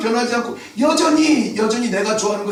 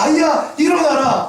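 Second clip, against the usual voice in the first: commanding call; 5 semitones higher than usual. Retold or imitated. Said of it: "예수님이 말합니다".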